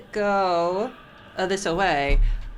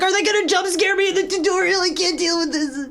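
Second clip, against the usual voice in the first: high panicked whine; scared horror game streamer; 12 semitones higher, 5 dB louder than usual. Retold or imitated. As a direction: squeal it in mock terror. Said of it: "I was like".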